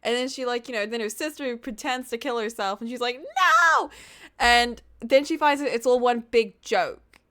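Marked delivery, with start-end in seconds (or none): 3.2-3.9 high, loud mock scream; acted-out anguished shriek; retold horrified cry. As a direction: imitate a distraught wail, pitched way up. Retold scream at sister's death.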